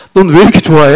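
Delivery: a real laugh through the words; laughing question. Real, not acted. Pastor laughing at a grinning congregant. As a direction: ask it while laughing. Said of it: "야".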